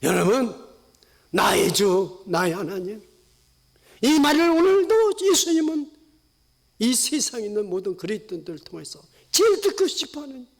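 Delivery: normal talking voice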